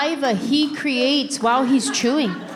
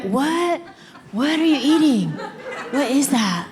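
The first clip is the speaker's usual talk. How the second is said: disgusted; 3 semitones higher than usual. Retold or imitated. Disgusted at husband's chewing.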